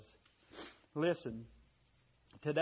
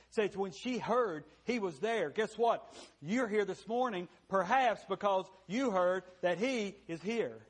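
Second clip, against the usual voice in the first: higher, louder building appeal; rising preaching; 4 semitones higher, 4 dB louder than usual. Real, not acted. Preacher urging the lost to come, rising and loud. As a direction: push it up with urgency.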